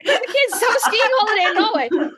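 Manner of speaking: mock creepy. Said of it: "this sounds super fucking creepy".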